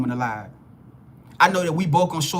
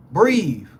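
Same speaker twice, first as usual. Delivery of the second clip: soothing; 4 dB louder than usual. Real, not acted. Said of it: "get level with me".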